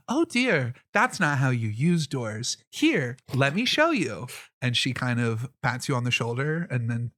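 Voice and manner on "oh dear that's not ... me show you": lilting, fussy helper voice; sing-song "let me show you" helpfulness; helpful lady. Acted. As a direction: gently correct them, pitch jumping up on key words.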